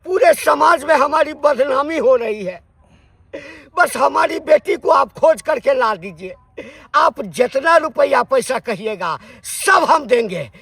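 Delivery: loud, insistent pleading; distressed plea. Acted. Father begs gang to find daughter. (ज़ोर देकर गुहार)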